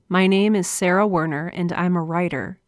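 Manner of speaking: proud declaration with an audible smile. Shown as a demonstration. Writer declaring herself a writer out loud, with a smile. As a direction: say it out loud, smiling through it. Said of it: "you can hear the smile in my voice".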